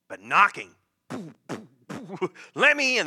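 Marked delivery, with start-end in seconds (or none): 1.1-1.7 imitated knocking. Shown as a demonstration. Imitates pounding knocks on a door. 2.5-3.1 loud, high, aggressive shout; aggressive demand. Acted. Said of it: "that's real aggressive".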